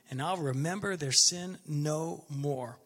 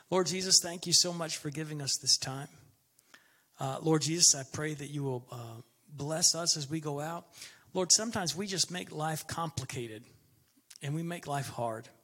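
closing prayer. Acted. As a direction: pray it sincerely for the flock.

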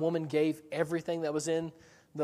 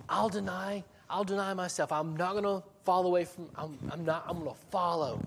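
higher-pitched mock earnest insistence; eager promise; 4 semitones higher than usual. Peter promises to deny himself and follow, eagerly. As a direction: stumble over yourself promising loyalty.

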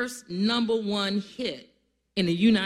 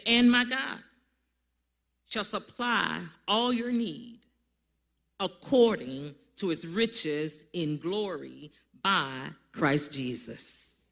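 scripture reading; slower than usual. Acted. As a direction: lift the start, then settle slowly. Reads verse nineteen aloud.

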